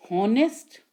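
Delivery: "Honest" shown with the H pronounced; wrong-way demo of "Honest" with an H; sounded H. Shown as a demonstration. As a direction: say "Honest" as "HON-est", H sounded. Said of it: "हम नहीं बोल रहे हैं".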